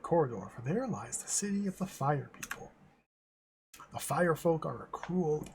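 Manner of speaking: a light fake Russian accent, only now and then; hint of a put-on Russian accent for the queen. Ice Queen greets the gnome in a light fake Russian accent. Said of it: "Like a fake Russian accent".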